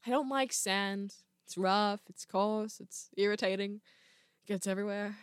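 low, soft, brooding young Jedi attempt; Anakin. Struggling impressionist doing a young Jedi's sand complaint, soft and low. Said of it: "less and less like Anakin".

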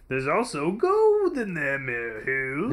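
put-on slow old prospector voice; slow ominous raspy drawl. Prospector-style old-timer line.

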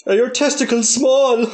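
lightly put-on accent through amusement; mock Eskimo accent. Podcaster replies as Eskimo, mock accent.

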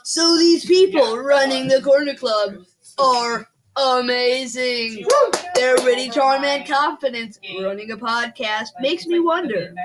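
game show announcer. Acted. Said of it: "Your ethical game show announcer voice".

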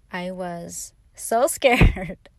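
slow, drawn out with a laugh inside. Real, not acted. Telling viewers about the Catalina night, laughing at herself. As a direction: laugh through the word scared.

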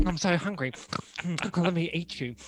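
hungry monster with a pig snout; growling bugbear. Pretend. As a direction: play a hungry snouted beast. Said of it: "like a, like a pig".

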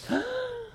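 high, sharp gasp; shocked gasp. Real, not acted. Host shocked by the pH result, gasp.

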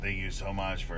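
flat, monotone robot. Shown as a demonstration. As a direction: speak like a stiff machine. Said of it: "say it in a robot voice".

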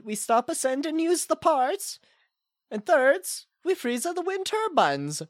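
hammy put-on Swedish accent; fake Swedish accent. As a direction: play a bad Swedish caller. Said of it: "this isn't a very good, uh, Swedish accent".

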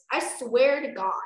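loud, exasperated mock fury; exasperated oath. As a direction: swear it loudly, at wit's end. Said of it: "I mean, no".

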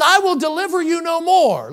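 high, loud final pronouncement; voicing God's refusal. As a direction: declare it as God, firmly. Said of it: "because he says".

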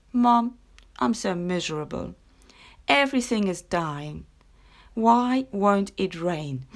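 put-on sniffling girl. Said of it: "she sniffled".

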